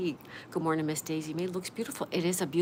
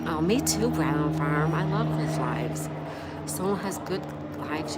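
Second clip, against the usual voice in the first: excited agreement; 5 dB louder, slower than usual. Real, not acted. Enthusing about a friend's streams.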